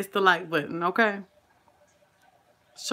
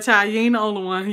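ordinary talk

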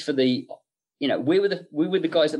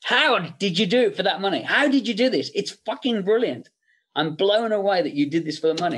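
raised, excited, amazed boss voice; higher, lively mock of an impressed producer; imitating Bob's praise; 4 semitones higher than usual. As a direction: gush with surprise down the phone. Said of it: "he was like".

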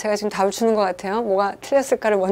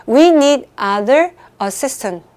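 "We need other assistant" read very slowly, WE louder; slow, deliberate quiz reading; 3 semitones higher, 4 dB louder, much slower than usual. Shown as a demonstration. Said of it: "아무 말도 안 하고 갈게요".

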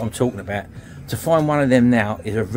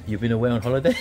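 laughing through quote; 4 dB quieter, faster than usual. Retold or imitated. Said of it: "And he said".

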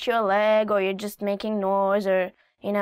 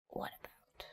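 whisper; 21 dB quieter than usual. Real, not acted.

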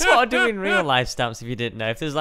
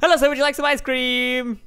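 fast shopkeeper talk; 2 semitones higher than usual. Shown as a demonstration. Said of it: "Speak really fast".

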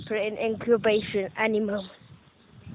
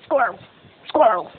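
louder barked creature cry; lightly voiced Squirtle cry; Squirtle impression; 2 semitones lower, 5 dB louder than usual. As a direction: bark the name like the Pokemon. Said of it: "I could do Squirrel".

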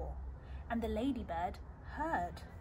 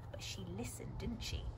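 whispering; 4 semitones lower, 9 dB quieter than usual. Real, not acted. Whispered aside.

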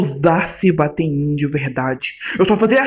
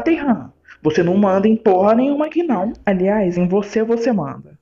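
high, heated comeback; indignant outburst; 5 semitones higher than usual. Acted. Husband angrily rejecting jealous orders, high indignant retort. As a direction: snap back, offended and fed up. Wife's partner furious at jealous demand.

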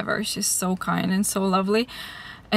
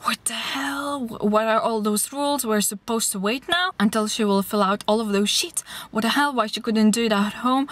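mock angry rant. Angry man in the post office queue complaining, mildly imitated rant. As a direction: imitate an irate customer, without shouting. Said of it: "going crazy".

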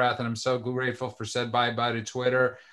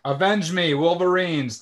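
overacted death scene; 5 semitones higher, 5 dB louder, slower than usual. Movie quote sign-off, hammed.

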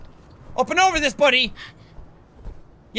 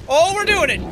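"Oh, we're doing it." said louder and brighter; getting excited as it works; growing thrill; rising excitement; 2 semitones higher, 3 dB louder than usual. Real, not acted. Creature starts climbing.

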